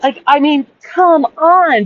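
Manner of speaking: high, pleading protest; exasperated disbelief. Real, not acted. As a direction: pitch it way up in incredulous protest. Exasperated at the man.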